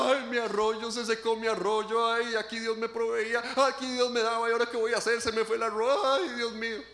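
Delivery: a light imitation of a whiny, tearful moan; half-hearted mock sobbing over a dried-up stream; mock weeping lament. Preacher imitating Elijah moping over his stream, mock tearful. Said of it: "encontrarse a Elías llorando".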